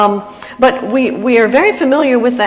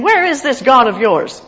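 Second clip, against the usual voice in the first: taunting; 4 semitones higher, 6 dB louder than usual. Acted. Psalm reader voices the enemies mocking his God, taunting. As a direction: read as a louder taunt. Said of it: "My enemies continually taunt me, saying".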